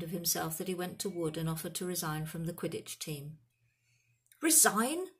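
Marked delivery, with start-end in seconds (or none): 4.4-5.1 high, loud, outraged question; thundering disbelief. A narrator's reading. Team captain reacting to resignation offer, loud and outraged. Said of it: "Wood thundered".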